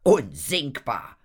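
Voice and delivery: a touch of loud, slow scorn; scornful snort. A narrator's reading. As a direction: draw the word out contemptuously. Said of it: "schnaubte sie". (verächtlich geschnaubt)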